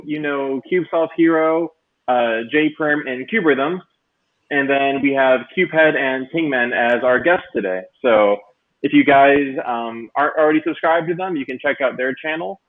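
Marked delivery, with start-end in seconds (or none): 4.5-12.6 glitchy robotic mic audio. Real, not acted. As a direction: voice through a robotic-sounding mic. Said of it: "People are saying my mic is robotic".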